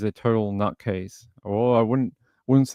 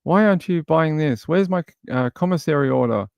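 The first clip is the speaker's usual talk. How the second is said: higher, quicker nagging voice; mock demanding whine; 5 semitones higher than usual. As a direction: imitate an inmate pestering for money.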